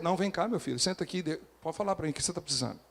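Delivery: voz baixa e suave de pastor acolhendo; acolhimento carinhoso. Retold or imitated. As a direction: receba o filho com carinho, bem mais baixo. (pastor acolhendo o fiel com voz mansa e suave)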